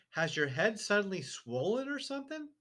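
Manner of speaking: put-on high, innocent child voice; little girl. A narrator's reading. Matilda innocently teasing her father, high sweet voice. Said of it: "she said".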